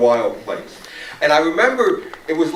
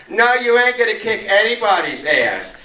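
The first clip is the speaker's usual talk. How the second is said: higher-pitched, emphatic contradiction; imitated defiance; 7 semitones higher, 3 dB louder than usual. Marcia turning on the drug dealer, imitated defiance. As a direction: act out standing up to a bully.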